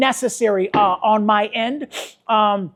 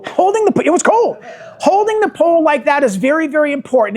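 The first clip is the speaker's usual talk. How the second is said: excited emphasis; 6 semitones higher, 3 dB louder than usual. Real, not acted. Stressing importance of holding poles.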